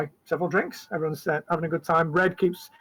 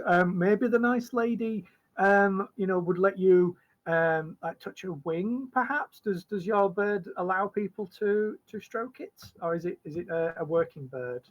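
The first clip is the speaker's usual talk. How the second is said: higher, slower, careful mother's voice; polite mum; 4 semitones higher than usual. Acted. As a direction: coax the lady politely on her child's behalf. Polite mum speaks for daughter.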